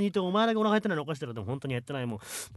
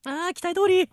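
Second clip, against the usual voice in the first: put-on customer voice; 11 semitones higher, 4 dB louder than usual. Sketch, customer judging the shop.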